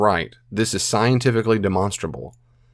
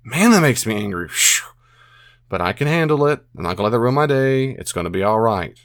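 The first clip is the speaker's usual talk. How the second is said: soothing self-talk. Shown as a demonstration. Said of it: "and then soothe yourself".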